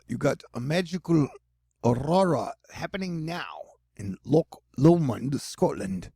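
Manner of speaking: playful, shaky try at Cockney; attempted Cockney accent. Shown as a demonstration. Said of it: "trying to do a Cockney accent".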